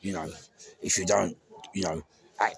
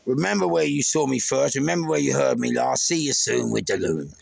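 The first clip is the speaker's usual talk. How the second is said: sign-off catchphrase. Acted. Host signing off to the viewers with a called-out catchphrase. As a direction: sell the catchphrase out to the crowd.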